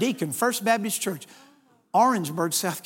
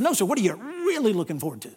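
"really" stretched out in imitation; mock-earnest question with a long "really"; echoed emphasis; 2 semitones lower, 3 dB quieter than usual. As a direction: echo the tease, lingering on "really". Echoes the man's drawn-out really.

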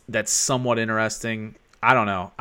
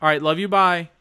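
calm husband signing off to his wife; 4 semitones higher, 4 dB louder than usual. Real, not acted. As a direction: sign off sweetly in a husband voice. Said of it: "I like your husband voice".

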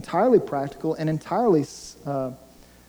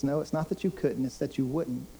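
softer, measured reply in God's voice; gently but firmly correct them, voice lowered; quiet correction; 6 dB quieter than usual. Acted. Voices God answering Israel.

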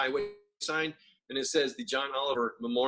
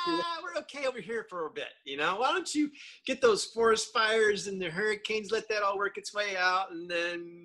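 mock polite British brush-off; 4 semitones higher than usual. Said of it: "they're like".

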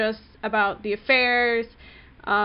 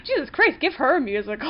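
high, exclaiming in disbelief; exasperated amazement; 4 semitones higher, faster than usual. Retold or imitated. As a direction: throw up your hands, impressed. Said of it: "I was like".

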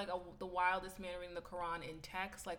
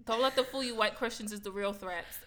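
raised-voice mock rant; retold screaming; 3 dB louder than usual. White guy ranting to the whole train, mock screaming. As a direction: imitate a ranting stranger, half-shouted. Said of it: "Then he starts screaming".

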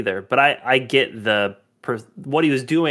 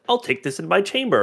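higher, lightly voiced prim officer; proper Hux; 6 semitones higher than usual. Co-host quoting Hux when he gets in trouble, lightly proper. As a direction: quote him with a touch of stiff propriety. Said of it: "Hux has to be so proper".

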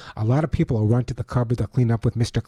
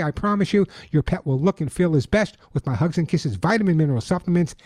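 upbeat radio ad read; chipper 1950s ad; 3 semitones higher than usual. Acted. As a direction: sell it bright and eager. Host reads his sponsor ad.

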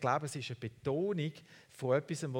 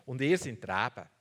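emphatic Jesus quote; 5 semitones higher, 4 dB louder than usual. Retold or imitated. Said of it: "er betont ihnen und sagt ihnen".

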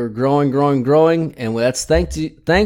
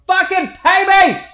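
mock demand; 3 dB louder than usual.

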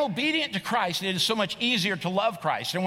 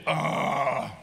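weary groan; 5 semitones lower than usual. Acted. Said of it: "The first attitude is".

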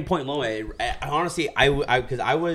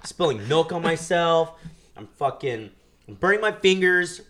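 laughing exasperation; 5 semitones higher, 3 dB louder, slower than usual. Real, not acted. Exasperated after spilling, burning fingers.

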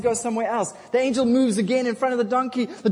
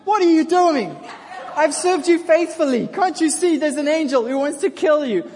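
high, loud, exasperated donkey voice; the fed-up donkey scolding its rider; a loud, high, put-out talking animal; 7 semitones higher, 6 dB louder than usual. Acted. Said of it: "The donkey's like".

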